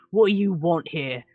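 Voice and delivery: lightly voiced gruff half-orc; a hint of a snarl at the stranger. Half-orc with an axe challenging the visitors, lightly snarled. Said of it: "snarls at you a little bit".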